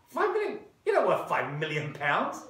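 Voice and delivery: mock-astonished reporter; incredulous journalist. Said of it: "journalist doubts Rothschild".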